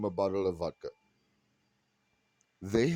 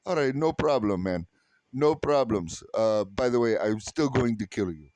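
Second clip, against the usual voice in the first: louder mock friendly threat; cheery enemy; 6 dB louder than usual. Neighbor agreeing, then threatening, breezy mock. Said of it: "your neighbor goes".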